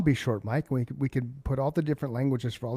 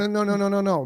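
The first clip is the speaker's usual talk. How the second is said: emphatic correction; 8 semitones higher, 5 dB louder, faster than usual. Real, not acted. Correcting misunderstanding, louder.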